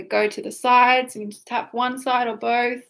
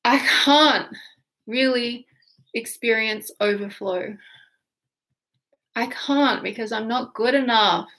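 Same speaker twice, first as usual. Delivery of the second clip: exaggerated despair. Shown as a demonstration. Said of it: "it may sound silly".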